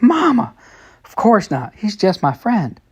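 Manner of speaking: high, loud embarrassed cry of protest; protesting scream. Acted. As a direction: shriek it out, mortified. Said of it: "I practically screamed".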